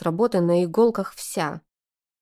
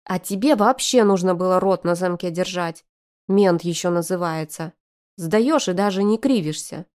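growling. Acted. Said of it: "рыкнула на старшего".

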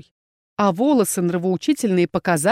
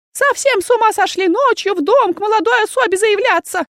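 put-on high, louder, outraged old aunt; indignant aunt; 13 semitones higher, 4 dB louder than usual. A narrator's reading. Zila scolding the inquisitor through the door, high and indignant. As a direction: scold the night visitor in a high voice. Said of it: "возмутилась Зила".

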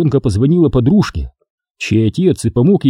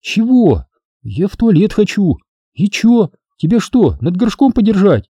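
put-on teen girl voice; 8 semitones higher than usual. A narrator's reading. Girls bickering, voiced characters.

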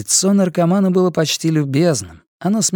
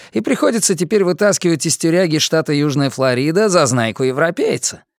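higher, sneering junkie voice; mocking inmate; 5 semitones higher than usual. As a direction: taunt him with a smirk. Guatemalan mocks Karl.

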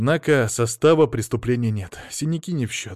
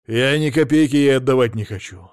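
loud angry refusal; 5 dB louder than usual. Acted. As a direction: bite the words out loud. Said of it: "сердито сказал Мамонов".

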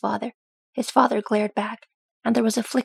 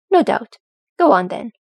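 laughing; 7 dB louder than usual. A narrator's reading. Father laughing after son's joke.

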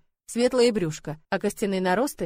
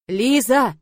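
1 calling out; 3 semitones higher, 8 dB louder than usual. A narrator's reading. Мужчина зовёт в панике.

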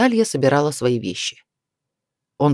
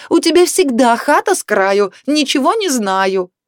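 angry; 7 semitones higher, 3 dB louder than usual. A narrator's reading. Wife continues the quarrel.

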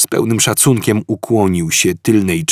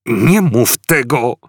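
stammered; 4 semitones higher, 4 dB louder, slower than usual. A narrator's reading. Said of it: "wyjąkał Ford".

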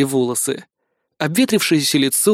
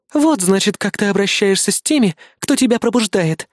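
higher, offended reproach; indignant; 6 semitones higher than usual. Acted. Controller scolds the hero, indignant. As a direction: sound outraged at his ingratitude. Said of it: "возмутилась контролёрша".

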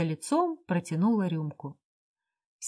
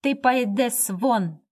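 furious shout; 4 semitones higher, slower than usual. Acted. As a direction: lay down each word in fury. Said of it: "в бешенстве крикнул Лестман".

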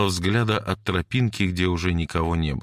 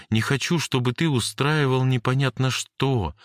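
put-on higher girl's voice, hurt and pleading; pleading Jane; 5 semitones higher than usual. Jane confesses her hurt to Cory, pleading. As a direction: make him see what she felt.

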